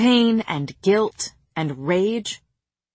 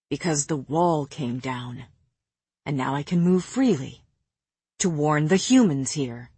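slightly deeper, restrained character voice; lightly voiced Jurian; 5 semitones lower than usual. Jurian explains his return, lightly voiced, low.

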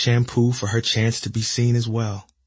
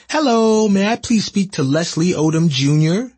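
high, bright cheery phone voice; a chipper office caller, much higher; 10 semitones higher, 7 dB louder than usual. Retold or imitated. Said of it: "A cheery voice on the other end inquired".

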